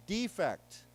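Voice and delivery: Defect said clearly with stress on fect. Shown as a demonstration. Teacher drilling Defect for students, clearly stressed. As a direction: repeat Defect for the class. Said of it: "Let's say it's".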